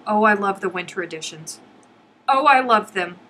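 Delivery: delighted gushing. Real, not acted. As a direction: squeal it with love. Gushing over winter editions.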